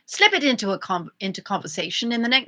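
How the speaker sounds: put-on British reading voice; British accent. Finishing co-host's reading on request, British accent. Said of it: "Finish it in British".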